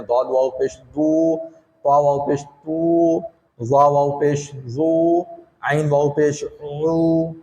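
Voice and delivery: slow, chanted letter drill; slow recitation drill. Shown as a demonstration. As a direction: drill each syllable slowly for the class. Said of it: "ये पूरी मशक हमने आपको करा दी". (धीमी, लय में हर्फ़ों की मशक)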